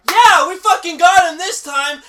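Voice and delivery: loud, high imitation of cocky heroes; mock triumphant yell. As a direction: shout it out in mocking celebration. Mimicking the overconfident movie heroes.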